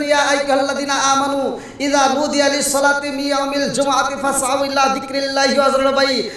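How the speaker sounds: melodic Arabic verse recitation; Quran recitation. Acted. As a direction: recite scripture in a preacher's singsong.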